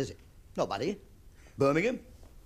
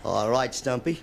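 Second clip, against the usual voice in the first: John Wayne; 3 semitones lower than usual. Retold or imitated. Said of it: "John Wayne talking to Walt Brennan".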